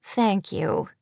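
mildly gracious thanks; a touch of polite graciousness. A narrator's reading. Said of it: "Kate said graciously".

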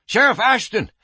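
high-pitched, urgent call; panted alarm. A narrator's reading. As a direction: raise the alarm as if out of breath. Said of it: "he panted".

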